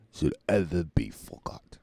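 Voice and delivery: unvoiced hushed line end; whisper. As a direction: breathe out the last line. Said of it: "V for Vendetta".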